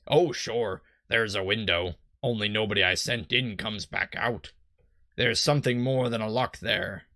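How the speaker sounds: lightly voiced old sea-dog; a hint of stock pirate in it; generic pirate. Boat salesman explains the fog, light generic pirate. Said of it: "my generic pirate".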